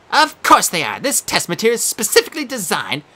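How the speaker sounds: high prim quizmaster creature; Sphinx voice. Acted. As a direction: play a fussy exam monster.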